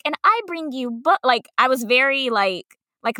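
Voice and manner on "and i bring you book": a touch higher and sing-song; light kindergarten teacher lilt; raised teacher voice. Retold or imitated. Teacher reminding kids she brings books, lightly sing-song. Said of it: "my voice raised".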